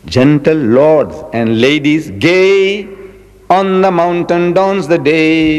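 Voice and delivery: slow, lilting verse reading; poem recitation. Shown as a demonstration. Remembering a school poem, reciting it slowly. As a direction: recite the old rhyme slowly, savouring it. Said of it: "poetry, English poetry".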